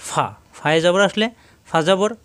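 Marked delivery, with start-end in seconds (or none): 0.1-0.2 ফা with upper teeth on the lower lip; touch teeth to inner lower lip for ফা. Shown as a demonstration. Teacher places the letter for learners, ফা as a true f. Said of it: "নিচে ঠোঁটের পেটে লাগবে".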